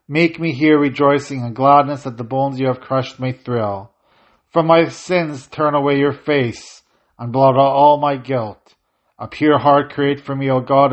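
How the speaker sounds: steady, prayerful reading of the psalm; psalm recitation. Acted. Priest reciting Psalm fifty in the service, prayerful reading.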